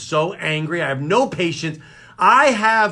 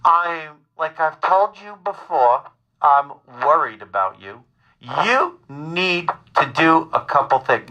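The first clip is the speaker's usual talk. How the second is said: calmly insistent mother. Acted. Son imitates his worried mother, calmly insistent. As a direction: stretch each word out like a patient, insistent mother. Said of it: "my mother is very calmly telling me".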